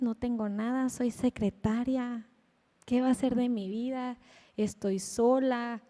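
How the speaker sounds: quietly imitating her hopeless lament; desesperación. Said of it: "entra en esta crisis". (lamento suave y lento)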